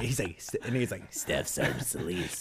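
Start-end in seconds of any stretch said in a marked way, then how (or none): 1.1-2.4 low, slow, softened instructor voice; drill instructor imitation. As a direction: quietly summon a colleague in a low mock voice. Imitating a drill instructor calling a colleague.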